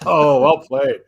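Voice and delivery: slow, laughing praise. Real, not acted. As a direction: laugh it out slowly. Laughs at the joke.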